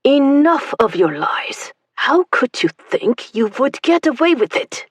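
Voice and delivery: slow, loud, harsh accusation; menacing soldier. Acted. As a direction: sneer the accusation. Officer accuses her.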